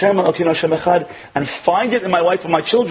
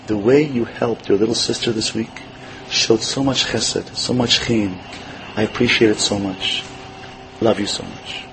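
tender whisper; 5 semitones lower than usual. Retold or imitated. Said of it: "I gave her a little whisper".

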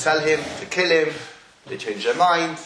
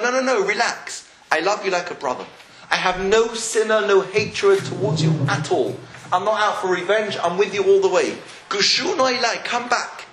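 insistent, higher-pitched reassuring; brotherly reassurance; 4 semitones higher than usual. Retold or imitated. Yosef calms his frightened brothers, emphatic brotherly reassurance. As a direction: urge them to relax and trust you. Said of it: "showing them some brotherly warmth".

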